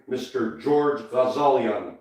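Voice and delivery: ordinary talk, nothing marked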